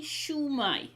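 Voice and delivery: "Shwmae" sounded out as SHOO-my; phonetic shwmae. Shown as a demonstration. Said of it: "written underneath phonetically".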